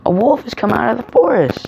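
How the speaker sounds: high-pitched acted alarm cry; shouted alarm. A narrator's reading. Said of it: "he shouted".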